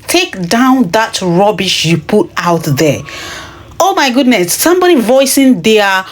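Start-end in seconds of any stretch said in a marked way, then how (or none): 0.1-3.0 slow, cold order from an official, mildly voiced; a hint of a scolding boss barking an order; quoting the official who threatened her, a light stern order; imitating the stern official. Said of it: "She said".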